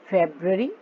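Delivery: फरवरी in English, as FEB-ree; फरवरी as February with the R swallowed; silent middle R. Shown as a demonstration. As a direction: soften away the middle R in फरवरी. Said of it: "आर बीच में silent है".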